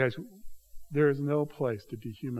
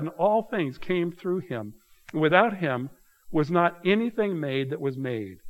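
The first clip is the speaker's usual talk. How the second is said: measured, emphatic Bible reading; preacher reading from the pulpit, deliberate; scripture reading. Acted. Reads John aloud in sermon.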